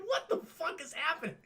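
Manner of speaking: high bewildered laughing imitation. Bewildered actor being embraced.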